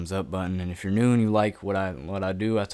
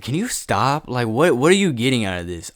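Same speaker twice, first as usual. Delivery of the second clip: raised, louder, exasperated questioning; exasperated demand; 3 semitones higher, 5 dB louder than usual. Retold or imitated. Texting her to stop ruining things, exasperated demand. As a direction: push the questions out, fed up.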